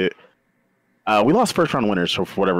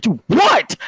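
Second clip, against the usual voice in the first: high, louder startled cry; startled dude what; 12 semitones higher, 3 dB louder than usual. Retold or imitated. Gamer startled by the ref's tap in high surprise. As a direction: yelp it, caught off guard. Ref taps shoulder mid-match.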